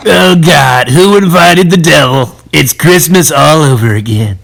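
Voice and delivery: mock dismayed outburst. Dismayed by the devil.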